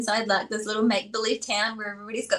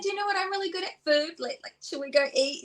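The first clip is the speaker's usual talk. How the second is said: bright cheerful offer; 5 semitones higher, 3 dB quieter than usual. Retold or imitated.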